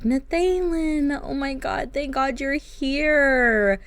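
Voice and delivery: wife flooded with relief at her husband's arrival; relieved gush. Acted. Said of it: "She's like".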